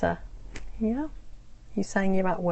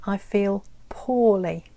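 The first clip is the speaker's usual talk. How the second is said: slow, clear demo; slower than usual. Shown as a demonstration. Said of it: "you can also say".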